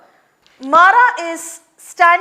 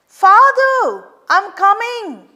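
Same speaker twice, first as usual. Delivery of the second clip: distant voice; 6 semitones higher, 4 dB louder, slower than usual. Acted. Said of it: "A distant voice".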